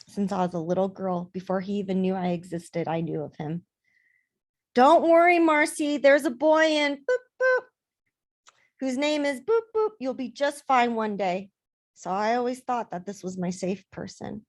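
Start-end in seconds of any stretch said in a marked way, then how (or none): 4.7-11.5 high, loud imitation of childhood reassurance; put-on, pitched-up "don't worry" voice; mock reassurance. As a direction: chirp it like someone placating a little girl. Retelling childhood reassurances from others.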